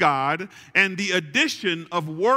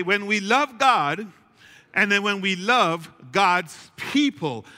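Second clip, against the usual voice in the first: call and response. Shown as a demonstration. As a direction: lead the congregation in saying it. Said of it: "You gotta say that with me".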